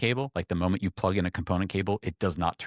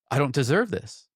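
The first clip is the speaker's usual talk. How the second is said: higher-pitched retold overwhelmed protest; 7 semitones higher, 4 dB louder than usual. Friend receiving a gift of a game, overwhelmed. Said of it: "he was overwhelmed".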